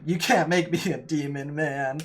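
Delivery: game master voicing a defiant prisoner; disbelieving captive. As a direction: brush off the offer as a cornered captive. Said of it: "he doesn't quite believe you".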